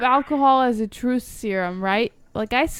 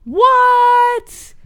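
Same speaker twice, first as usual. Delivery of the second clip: surprised; 11 semitones higher, 9 dB louder than usual. Real, not acted. Shocked reaction to news.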